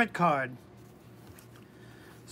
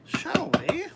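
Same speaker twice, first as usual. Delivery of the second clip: lightly put-on British accent; attempted British accent; 4 dB quieter than usual. Host opening a card reading, amateur British accent. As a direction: have a playful go at British. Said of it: "I wish I could do a British accent".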